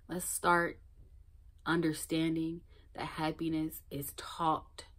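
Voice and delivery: soft hushed whisper; whispered confession to the viewer. Real, not acted. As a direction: lean in and whisper it like a secret. Intimate message to viewer.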